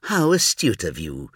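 a light mocking jab at the praise; mildly mocking, turning the words back on him. Grammaticus mocking the Eldar's remark, lightly sarcastic. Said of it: "Grammaticus mocked".

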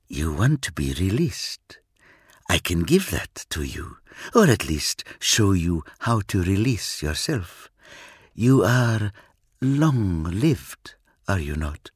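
a cool Eldar, aloof and sure of himself; alien Eldar. Acted. Eldar offers release.

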